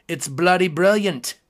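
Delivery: badly faked English accent. Shown as a demonstration. Host joking about pub music, bad English accent. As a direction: put on a hammy, terrible English accent. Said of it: "worst English accent you have ever heard".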